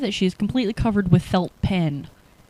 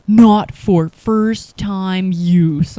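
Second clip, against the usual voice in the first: slow reading aloud; 9 dB louder, much slower than usual. Retold or imitated. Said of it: "and I'm reading this".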